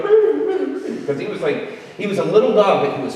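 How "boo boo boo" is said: mocking dogs. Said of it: "they would be like".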